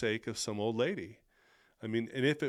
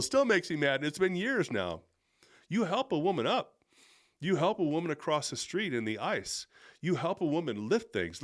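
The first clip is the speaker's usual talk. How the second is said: higher and louder, heated and insistent; real anger; 4 semitones higher, 3 dB louder than usual. Real, not acted. Speaker still upset about the man who walked off, heated and insistent. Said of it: "Sorry, I'm getting emotional".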